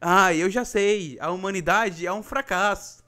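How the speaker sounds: put-on slow, world-weary teen sigh; a bored emo girl who has given up on humanity; gloomy emo teen. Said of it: "adolescente que gosta de uma banda gótica".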